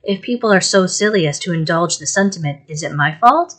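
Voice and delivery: pleading and hurt, voice lifted in distress; tearful, aggrieved mother. Acted. Mother scolds Peggotty through tears, tearful. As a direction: wound up, tearfully scolding her maid. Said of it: "shedding more tears than before".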